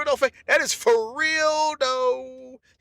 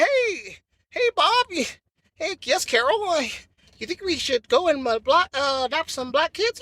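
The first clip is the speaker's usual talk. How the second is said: mock white couple. White couple chatting at breakfast, lightly mocked. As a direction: play the cheery husband and wife, lightly. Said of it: "You wake up in the morning like".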